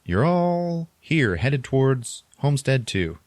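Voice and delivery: sweetly slow, like a cheerful computer. Retold or imitated. Planetarium computer answering the lost passenger, slow sing-song voice. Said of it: "And it's like".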